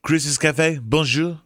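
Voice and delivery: hammed-up fake French accent; improvised mock French accent. Shown as a demonstration. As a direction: rattle off made-up French. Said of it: "like, in a French accent".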